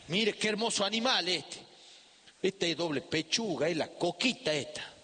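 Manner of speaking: grandma proudly showing off the hen. Retold or imitated. Grandma shows the boy the plump hen, proud coaxing. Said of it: "la levanta así".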